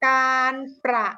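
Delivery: การประมง said syllable by syllable; careful, evenly measured การประมง for pupils to spell; dictation. Shown as a demonstration. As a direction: dictate การ-ประ-มง with each syllable clearly separated. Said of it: "ฟังดีๆนะ คำนี้หลายพยางค์เลย".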